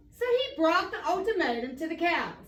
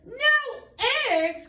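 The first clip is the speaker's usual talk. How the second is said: much higher, loud shocked cry; cried out; 9 semitones higher, 4 dB louder than usual. A narrator's reading. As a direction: yelp it in outrage. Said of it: "cried Farmer Brown".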